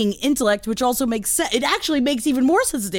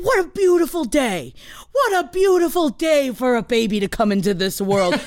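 gushing; 4 semitones higher than usual. Retold or imitated. Actor gushing over the baby.

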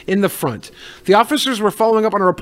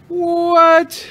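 shocked what; 13 semitones higher than usual. Real, not acted. Host reacts to the pastor headline, stunned. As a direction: blurt it out in disbelief.

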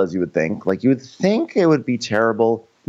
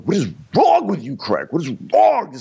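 exasperated yell; 9 semitones higher than usual. Retold or imitated. Austin yelling at Craig.

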